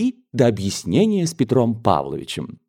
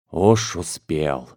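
flustered exclamation; 5 semitones lower, much slower than usual. Acted. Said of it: "воскликнула генеральша".

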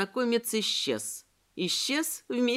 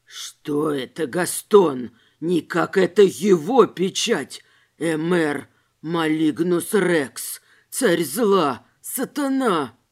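low, slow, terrified tramp; frightened; 5 semitones lower, 5 dB louder, slower than usual. A narrator's reading. Tramp recognizing the devil's seal, frightened. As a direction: recoil in horror at the seal. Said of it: "тихим и испуганным голосом".

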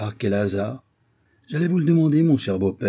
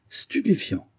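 proclamé; 9 semitones higher, slower than usual. A narrator's reading. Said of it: "proclama-t-il".

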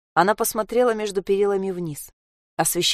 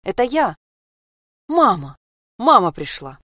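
excited calling; 3 semitones higher, 4 dB louder than usual. Acted. Child calling out to mother.

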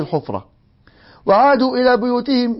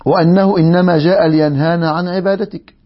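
the repeated line said louder, stressing وأنه; louder emphatic take; 4 dB louder than usual. Shown as a demonstration. The old man complains to his idol, louder and emphatic. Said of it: "repeats the line louder".

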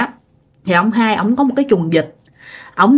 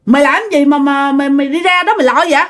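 higher-pitched acted call to a friend; calling out to someone; 5 semitones higher than usual. Second uncle calling Út back up to keep drinking, acted higher-pitched call. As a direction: call down to him, voice raised in pitch. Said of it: "ông hai mới kêu".

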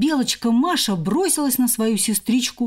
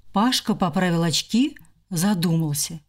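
plain reading voice

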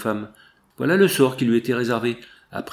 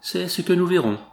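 a sly threat through a smirk; menacing smile in the voice; nasty smile; 8 semitones higher than usual. A narrator's reading. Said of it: "en souriant méchamment".

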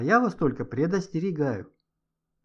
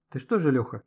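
usual speaking voice

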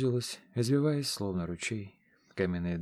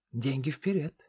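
higher grumpy crone grumble; grumbling old woman; 5 semitones higher than usual. A narrator's reading. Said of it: "проворчала гадалка".

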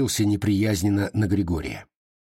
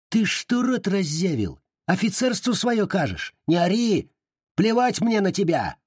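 yelling, pitched way up; high yell; 10 semitones higher than usual. A narrator's reading. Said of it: "выкрикнул валет". (высокий выкрик)

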